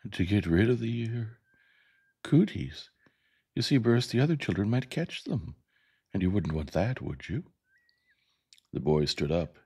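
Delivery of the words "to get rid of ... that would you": higher, hesitant schoolmistress; high, tactful teacher voice; Miss Caroline, delicate teacher. Acted. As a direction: broach an awkward subject with the pupil. Miss Caroline explains delicately to Burris.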